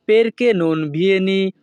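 perché non vieni said slowly, syllable by syllable; slow it down so the class can repeat; careful slow demo for learners; slow teaching pace. Shown as a demonstration. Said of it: "দুই থেকে তিনবার বলার চেষ্টা করব".

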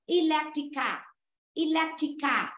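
"Electric car" starting ee-LEK, not eh; initial ee sound. Shown as a demonstration. Teacher repeats for class, "Electric car" with ee at the start. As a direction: begin "Electric" with a clear ee. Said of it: "không đọc là E".

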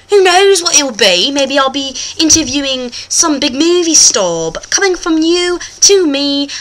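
hammed-up British presenter accent; put-on British accent. The host talks to viewers, put-on British accent. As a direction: play a chatty host in mock British.

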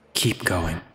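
low, slow voice from the sword; mysterious sword voice. Acted. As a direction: otherworldly voice. Sword voice speaks.

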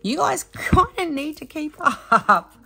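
playful laughing tease. Real, not acted. Teasing viewers about her rambling.

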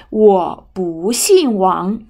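slow, with 不 rising before 姓 falls; drawn-out rising 不 in 我不姓王; second-tone 不. Shown as a demonstration. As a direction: glide up on 不, then drop on 姓. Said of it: "Become 不".

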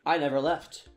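loud, proud magic reveal; triumphant announcer voice. Pretend. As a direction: announce it like a showman. Bragging magic editing return.

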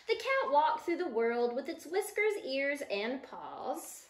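slow storybook read, easing down at the end; reading to children. Acted. Teacher reading the book to her listening children, storybook voice. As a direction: read it to a group of small kids.

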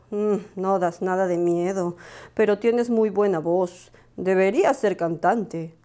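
más suave y pausada, de experto; voz del director. Acted. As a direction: juzga con calma profesional. El director juzga a Lupo. (el director evalúa a Lupo, suave y lento)

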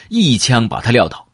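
ordinary delivery, nothing marked

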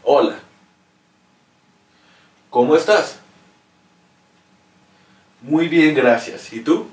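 read for repeating. Shown as a demonstration. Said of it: "I will read it again so that you can repeat after me".

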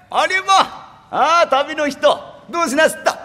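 high, slow country granny; gently surprised old lady; an old woman at the teahouse greeting the traveler; rustic old woman. Acted.

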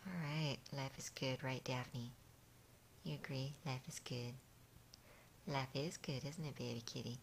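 low, soft pet talk; contented soothing. Real, not acted. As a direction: murmur it low to a drowsy cat. Contented talk while massaging cat.

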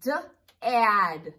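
"S-" held, then a loud "add"; sound blending demo. Shown as a demonstration.

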